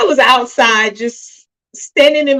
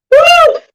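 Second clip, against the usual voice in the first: high, loud "woo"; loud whoop; 12 dB louder than usual. Real, not acted. Daughter choking up over her father, loud whoop. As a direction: let out one sudden high whoop. Shakes off emotion while choking up.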